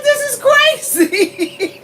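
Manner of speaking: very high, stretched-out squeal; hammed-up cry of disbelief; mock shocked wail. Retold shock, laughing.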